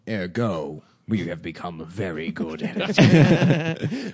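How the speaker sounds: low, slow, pompous pronouncement; stately, measured verdict; the Architect. Acted. Reviving the film parody for his friends, slow and pompous. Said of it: "the architect in the Matrix".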